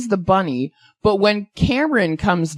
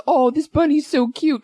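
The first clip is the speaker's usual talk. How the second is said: mock cooing; 7 semitones higher than usual. Acting out villain adoring the bunny.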